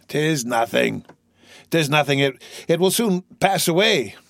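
lightly voiced failing old man, halting; ailing old father. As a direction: brush off the weakness to calm a son. Failing old man reassures son.

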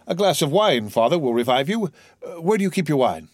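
lightly urgent, looking after a weak father; anxious young son. Acted.

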